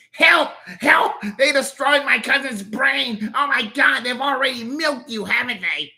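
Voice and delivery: high, loud, hammed-up panic; panicked cries for help. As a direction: scream for rescue.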